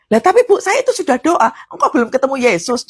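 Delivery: mock whine of a member; complaining congregant. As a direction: play a churchgoer objecting.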